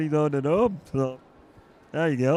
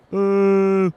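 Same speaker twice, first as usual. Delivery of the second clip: booing heckler; 7 dB louder than usual. Acted.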